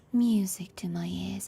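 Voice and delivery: put-on whispery voice with fry. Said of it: "almost whispering, and she's got a little bit of vocal fry".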